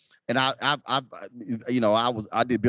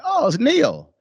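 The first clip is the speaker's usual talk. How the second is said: mock surprise; 6 dB louder, slower than usual. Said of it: "I was like".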